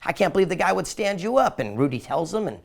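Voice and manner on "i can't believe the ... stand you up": high-pitched retold indignation; storyteller's upset mailman, pitched up; mock upset. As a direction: act out mild outrage on someone's behalf. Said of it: "the mailman gets upset".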